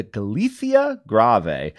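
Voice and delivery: slow, careful attempt at a Catalan accent; best Catalan accent. Shown as a demonstration. Host announcing a Catalan bass festival, attempted Catalan accent. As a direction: try the name in a Catalan accent, drawn out. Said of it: "this is my best Catalan accent possible".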